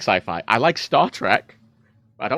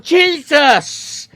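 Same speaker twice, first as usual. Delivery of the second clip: high, loud startled cry; startled yelp; 9 dB louder than usual. Retold or imitated. Player startled by the game's blaring voice, yelping. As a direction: jump and yelp in shock.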